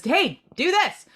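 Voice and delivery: sudden loud high bark of an order; bossy spirit command. Retold or imitated. A pushy first-responder spirit barking an order.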